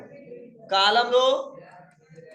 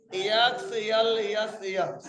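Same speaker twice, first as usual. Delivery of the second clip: dictating letter by letter, very slow; slow spelling out; much slower than usual. Shown as a demonstration. Teacher spelling a file extension for students, slow and deliberate. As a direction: spell each letter slowly and clearly. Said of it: "extension name होता है dot".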